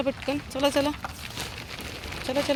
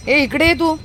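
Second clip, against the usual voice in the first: calling a pet; 8 semitones higher than usual. Real, not acted. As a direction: sing out to bring the dog running. Calling the dog over, raised voice.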